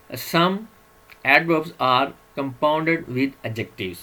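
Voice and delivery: drawn-out teacher voice reading a slide; slow slide reading. Acted. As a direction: read the English heading out word by word, very slowly. Reads slide heading slowly.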